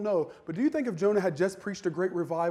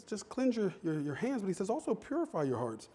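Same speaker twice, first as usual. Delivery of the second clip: hushed scripture; 10 dB quieter than usual. Acted.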